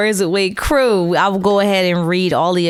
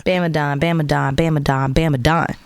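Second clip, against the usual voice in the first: low echoing announcer chant; deep echoed hype chant; monster truck ad; 6 semitones lower than usual. Pretend. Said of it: "old monster truck commercials".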